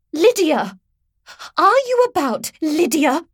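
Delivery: high, loud, snappy housekeeper call; thin reedy voice. A narrator's reading. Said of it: "thin, reedy voice snapped".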